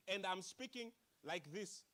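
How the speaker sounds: slow robot monotone. Shown as a demonstration. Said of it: "like a robot".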